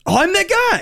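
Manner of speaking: high-pitched mock-horrified realization; self-mocking high squeal of recognition; dawning realization. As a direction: exclaim it high, as if it just hit you. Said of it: "I was like".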